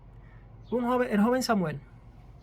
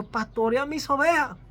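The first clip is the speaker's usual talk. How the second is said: commanding call; 4 semitones higher, 5 dB louder than usual. Acted. Jesus commanding Peter.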